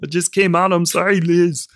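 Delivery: flustered mock Austrian apology; imitated Austrian panic; Arnold impression. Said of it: "It's the accent that makes it funny".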